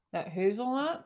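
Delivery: talking through a mouthful; muffled by a bite of chocolate; mouth full. Real, not acted. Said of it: "talking with my mouth full".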